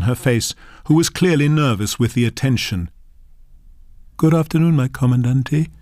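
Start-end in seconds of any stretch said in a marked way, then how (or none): 4.2-4.8 put-on nervous old woman's voice, a touch higher; slightly trembling grandmother greeting; quavering. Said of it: "the voice quavered". 4.8-5.7 shy greeting of "my comandante"; nervous "my comandante"; quavering. Acted. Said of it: "the voice quavered".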